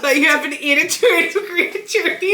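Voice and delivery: playful put-on Australian; Australian accent. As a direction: deliver it in exaggerated Australian vowels. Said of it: "doing that accent".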